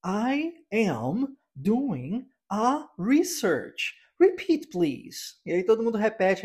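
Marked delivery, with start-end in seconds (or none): 0.0-3.9 very slow, word-by-word "I am doing a research"; mock stiff textbook teacher, each word separated; robotic course teacher. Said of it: "você escuta o professor ensinando". 4.2-5.4 slow, stiff classroom command; mock stiff teacher asking the class to repeat; robotic course teacher. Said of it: "você escuta o professor ensinando".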